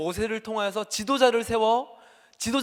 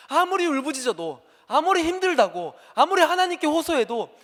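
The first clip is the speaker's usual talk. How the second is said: building higher and louder; preaching at full force; 8 semitones higher, 7 dB louder than usual. Acted. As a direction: drive the repeated phrase upward. (점점 높고 크게 몰아치는 설교)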